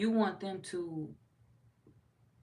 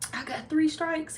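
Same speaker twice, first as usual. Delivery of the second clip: high, slow, louder movie line; movie-scene quote; 10 semitones higher, 6 dB louder than usual. Retold or imitated. Quoting a scene from Baby Boy, high mock-indignant quote. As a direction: recite it high and drawn out like a film line. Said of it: "scene from Baby Boy when he was like".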